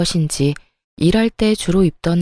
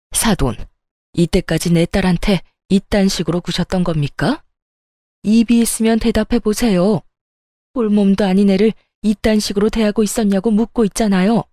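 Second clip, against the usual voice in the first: glaring confrontation. Acted. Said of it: "엄마는 시모를 쏘아보며 말했고".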